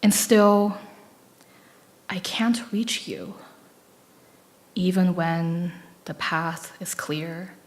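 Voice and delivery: slow, fragmented recital with lines trailing off; poem reading. Acted. Reading her concrete poem to the audience, slow and fragmented. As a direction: read each fragment as its own small moment.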